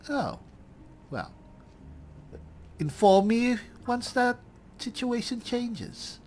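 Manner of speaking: lightly voiced hero chatting up a merchant; in-character adventurer.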